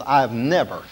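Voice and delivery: "never" gently leaned on; stress on never. Shown as a demonstration. Preacher quoting Rockefeller's admission to the congregation, stress on "never". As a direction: put the weight on "never". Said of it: "I emphasize the word never".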